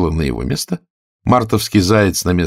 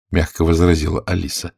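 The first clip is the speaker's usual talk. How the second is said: ordinary delivery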